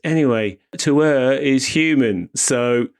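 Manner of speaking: a light imitation of a drunk man; half-hearted tipsy drawl; mock drunk. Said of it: "and he's drunk".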